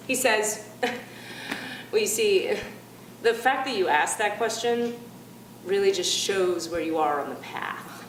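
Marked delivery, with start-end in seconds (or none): 1.9-8.0 smug condescension. Retold or imitated. Temp boss condescending to questioning employee, smug. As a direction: talk down as the enlightened one. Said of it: "just like this".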